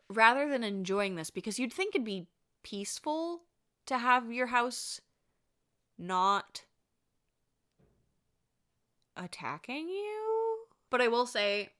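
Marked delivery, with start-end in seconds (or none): 2.6-10.6 mock spooky. Ironic aside.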